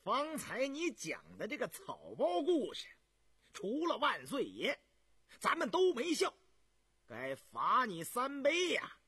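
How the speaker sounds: lightly voiced teasing older brother; teasing prince. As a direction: rib him loudly, half laughing. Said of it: "笑道".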